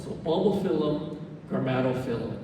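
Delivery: bulbophyllum and grammatophyllum ending in FILL-um; short-i pronunciation. Shown as a demonstration. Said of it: "it's always pronounced phylum".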